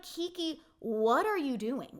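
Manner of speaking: drawn-out, slow "what are you doing"; stretched-out disbelieving question; exasperated disbelief. Retold or imitated. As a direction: plead with her, slowly and exasperated. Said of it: "And I'm like".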